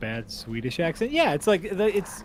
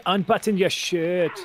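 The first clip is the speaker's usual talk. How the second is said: put-on light generic European accent; a quick hint of the vague European accent; Euro trash accent; 5 semitones higher, 3 dB louder than usual. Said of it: "it's not a real accent".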